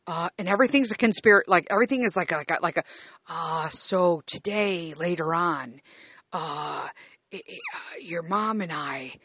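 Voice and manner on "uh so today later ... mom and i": imitating dad, softer, stumbling on every word; hesitant rambling father. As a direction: play the father who can't finish a sentence. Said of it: "he never can, like, finish the fucking sentence".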